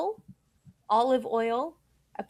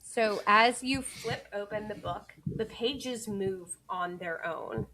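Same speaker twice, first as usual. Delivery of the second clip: eerie whisper; 3 dB quieter, slower than usual. A narrator's reading. Narrator sets eerie scene.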